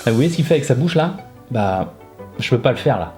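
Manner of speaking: talking with a numb, anesthetized mouth. Real, not acted. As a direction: speak like the dentist's shot hasn't worn off. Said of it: "il m'a anesthésié".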